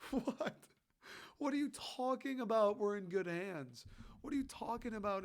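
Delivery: mock a fan you can't take seriously; incredulous mockery. Mocking imagined serious Pistons fan.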